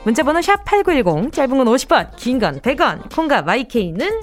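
upbeat home shopping pitch; hard sell ad. Acted. Radio shopping segment ad read.

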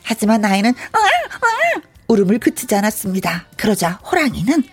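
measured folk-tale storytelling; story narration. A narrator's reading. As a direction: tell it like an old tale, pausing for effect. Narrates between acted parts. (옛날이야기 들려주듯)

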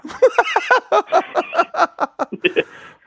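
revived gasp. Retold or imitated. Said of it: "조진웅 씨가 이번에는 이제 다 맞고 나서 환생하셨을 때".

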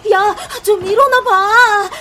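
urgent pleading. Acted. Repeatedly waking a sleeping friend.

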